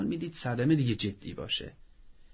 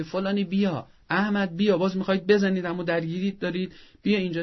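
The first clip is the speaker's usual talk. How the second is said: calling the son over sharply, a bit louder; harsh summons; 5 semitones higher, 3 dB louder than usual. Shown as a demonstration. Mother calling the fighting son the wrong way: sharp summons. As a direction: bark his name to break up the fight. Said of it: "نه به این عنوان که".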